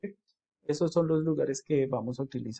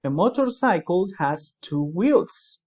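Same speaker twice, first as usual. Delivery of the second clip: slow model sentence; 2 semitones higher, slower than usual. Shown as a demonstration. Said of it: "aquí está el ejemplo".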